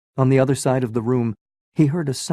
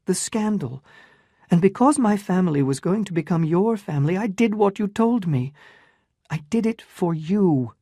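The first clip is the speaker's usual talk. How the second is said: higher, pleading woman's voice; a wounded woman explaining herself, higher; Ellen's voice; 6 semitones higher than usual. Acted. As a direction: voice her hurt confession, higher.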